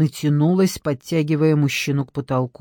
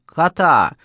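с удовольствием; 3 dB louder than usual. A narrator's reading. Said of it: "повторила с явным удовольствием".

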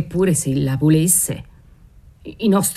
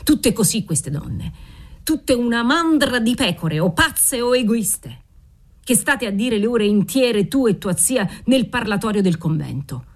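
rising scornful rant, moderately raised; a father berating his daughter, understated fury; hammed-up contempt, voice climbing higher; mild angry tirade; 5 semitones higher than usual. Father rants at women.

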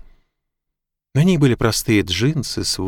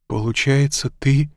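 higher, hesitant, left hanging; dawning realisation; 5 semitones higher, slower than usual. A narrator's reading. Mack works out the man's identity, tentative and amazed. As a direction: feel your way to an astonishing guess. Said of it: "Мак внезапно споткнулся о собственную догадку".

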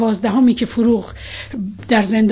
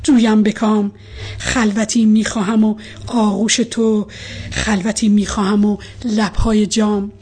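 impassioned love poem, rising and subsiding; measured verse reading, strong openings, softened line endings; poetry recitation. A narrator's reading. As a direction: recite with feeling, long pauses between verses.

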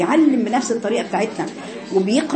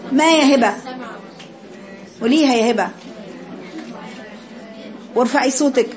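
usual speaking voice

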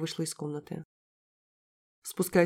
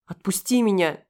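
отчаянный крик; 2 semitones higher, 6 dB louder than usual. Acted. Героиня вырывается из хватки.

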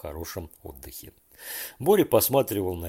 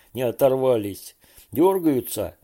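louder, sarcastic repeat of the question; angry mocking echo; 4 semitones higher, 6 dB louder than usual. A narrator's reading. Fedya angrily mimicking Borya's question, loud mock. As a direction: throw his words back at him. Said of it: "Федя рассердился".

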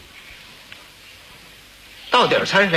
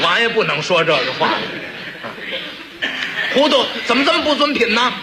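higher-pitched prince spitting out 糊涂，怎么这么不尊品呢, quick with a laugh; a raised, hammed-up prince cursing; 6 semitones higher than usual. Shown as a demonstration. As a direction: play the prince as a crude name-caller. Wrong version of prince scolding.

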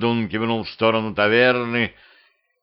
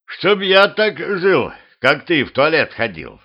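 higher, louder, slow drawn-out jibe; mocking drawl; 6 semitones higher, 4 dB louder than usual. Wizard teasing Petrovich for taking so long, mocking drawl. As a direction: stretch the taunt out slowly.

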